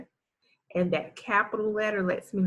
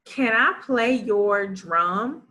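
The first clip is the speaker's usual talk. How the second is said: slow decoding read; 2 semitones higher, 3 dB louder than usual. Shown as a demonstration. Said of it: "reads sentence twice".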